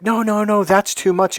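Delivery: high-pitched imitation of a flustered refusal; imitating someone waving off a tip; mock protest.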